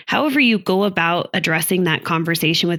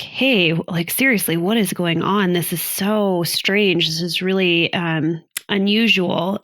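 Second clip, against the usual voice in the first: drawn-out, puzzled and open asking; inviting; slower than usual. Shown as a demonstration. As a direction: wonder aloud, inviting the partner in. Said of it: "And it's more inviting".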